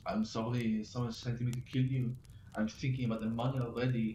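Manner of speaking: put-on a light French accent on an assassin's apology; lightly put-on French accent, polite but matter-of-fact; thick French accent. French assassin apologising to James, light French accent. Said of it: "in a thick French accent".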